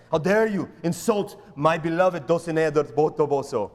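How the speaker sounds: lightly hammed Spanish-accented outrage; mock affront with a Spanish accent; Inigo Montoya. Pastor voicing Don Quixote defending Dulcinea, mock Spanish accent. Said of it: "He speaks like that, Inigo Montoya".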